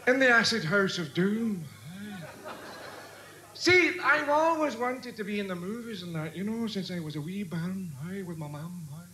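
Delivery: put-on broad Glasgow accent, rambling; thick Scottish brogue. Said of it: "piss off back to Scotland".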